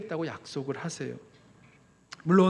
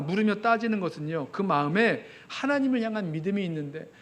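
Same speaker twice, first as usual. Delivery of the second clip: ordinary talk, nothing marked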